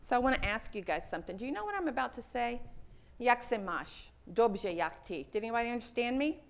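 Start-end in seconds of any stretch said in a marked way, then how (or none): 3.2-5.3 Czech greeting said in Czech; speaking Czech. Shown as a demonstration. Asking the audience in Czech whether they understand, in Czech. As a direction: greet them in Czech to test who understands. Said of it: "I was speaking Czechoslovakian".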